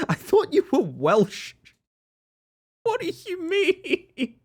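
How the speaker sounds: very high, drawn-out squeak of disbelief; high-pitched, slow, baffled protest; laughing disbelief. Real, not acted. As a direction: stretch it out slowly in a high incredulous voice. Incredulous reaction to chat remark.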